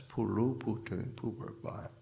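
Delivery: Puru, Putun, Puberba said as Thai words; Thai pronunciation. Shown as a demonstration. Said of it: "In the Thai, it's".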